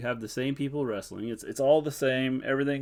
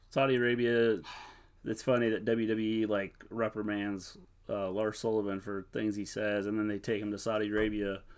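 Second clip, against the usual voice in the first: ordinary talk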